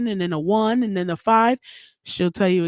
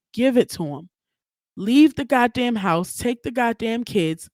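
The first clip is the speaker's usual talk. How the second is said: emphatic demand; 4 semitones higher than usual. Real, not acted. Demanding mothers get a break.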